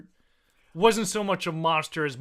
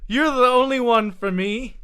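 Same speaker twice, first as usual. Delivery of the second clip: pleading wife; 5 semitones higher, 5 dB louder than usual. Acted. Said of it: "And she says".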